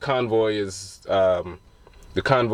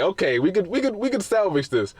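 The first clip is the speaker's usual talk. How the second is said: panicky; 7 semitones higher than usual. Retold or imitated. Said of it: "kind of freaking out".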